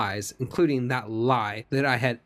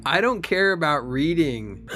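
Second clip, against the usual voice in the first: higher-pitched mock indignation; indignant dismissal; 4 semitones higher than usual. Witness dismisses lawyer's ethics-code question, mock indignant. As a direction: brush the question off, hammed-up and heated.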